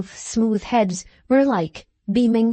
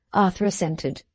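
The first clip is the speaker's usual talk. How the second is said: usual speaking voice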